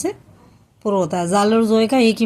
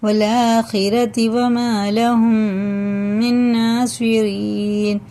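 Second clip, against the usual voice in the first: slow melodic chanted recitation; Quran recitation; much slower than usual. Acted. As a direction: chant the verse slowly with long vowels.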